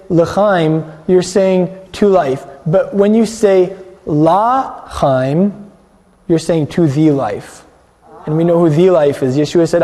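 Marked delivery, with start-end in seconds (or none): 4.1-5.7 La Chaim with a long, open "La"; drawn-out ah. Shown as a demonstration. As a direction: say La Chaim slowly, first syllable a full "ah". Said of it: "a little more of an ah there".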